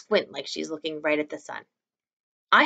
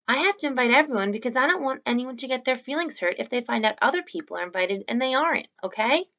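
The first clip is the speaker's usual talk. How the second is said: put-on pleading boy; 7 semitones higher than usual. A narrator's reading. Augie pleading with mom.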